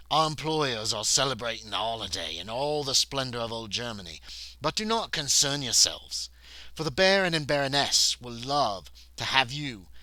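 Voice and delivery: a touch of the stately butler; butler explaining. Acted. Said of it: "he explains".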